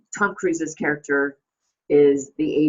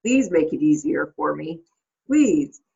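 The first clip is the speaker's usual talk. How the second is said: imitated begging, louder final please; pleading; 4 dB louder than usual. Agent begging his client to cooperate, imitated pleading. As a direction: beg lightly, then punch the last please. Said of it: "pleading and begging with Rod".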